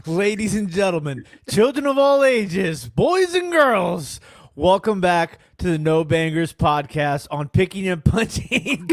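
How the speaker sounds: booming circus ringmaster intro, stretched out. Pretend. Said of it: "do we have to do the intro?".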